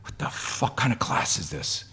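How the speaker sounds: mock out-of-breath outrage; imitated hyperventilating. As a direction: puff out panicked breaths, then gasp the words. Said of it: "hyperventilating. She's like".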